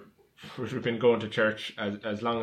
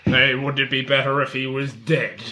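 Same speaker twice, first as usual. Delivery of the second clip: louder, hammed-up Irish parent lamenting; lightly voiced Irish parents; 3 semitones higher, 8 dB louder than usual. Sitcom parents running down their son to a priest, mock lament. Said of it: "what an Irish person would be like".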